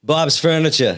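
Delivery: a hint of Boston accent; light Boston accent slipping out. Shown as a demonstration. Host naming a local commercial, slight Boston accent. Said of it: "See, it already came out".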